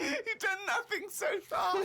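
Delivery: very high words through laughter; barely able to speak for laughing; crying with laughter. Real, not acted. Both laughing at diary.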